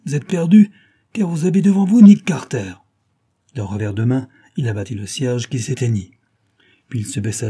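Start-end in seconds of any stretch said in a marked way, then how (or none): 0.1-2.7 loud, high, triumphant reveal; thundering roar. A narrator's reading. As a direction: proclaim it like a hero unmasked. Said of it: "rugit-il soudain d'une voix tonnante".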